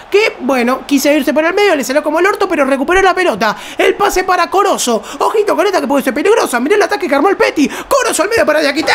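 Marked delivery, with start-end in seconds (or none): 3.8-8.9 fast, rising play-by-play rush; breakneck goal commentary. Real, not acted. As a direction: rattle off the attack quickly. Attack building toward goal.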